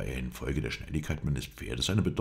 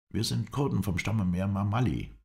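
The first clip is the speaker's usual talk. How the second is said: higher-pitched character voice; higher voice for the Kurd; Kurdish stranger; 6 semitones higher than usual. A narrator's reading.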